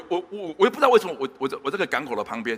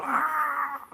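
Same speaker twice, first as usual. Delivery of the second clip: imitated wail; 11 semitones higher than usual. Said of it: "她那个哭声".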